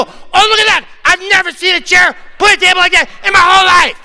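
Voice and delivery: high, loud, fast mock amazement; amazed onlookers. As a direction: gasp at the sight like it's a marvel. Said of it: "and people go".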